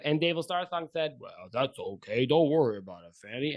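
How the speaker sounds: chatty cook spilling harbor gossip, lightly voiced; a hint of a gossiping sailor leaning in; gossipy boat cook. Steve gossips to the couple about the pirate, lightly voiced.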